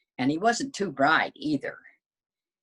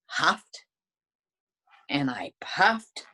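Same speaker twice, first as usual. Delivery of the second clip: breathy whisper; slower than usual. Acted. Wolf recounting his puff to readers, whispered. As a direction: whisper it, puffing air. Huffing and puffing retold.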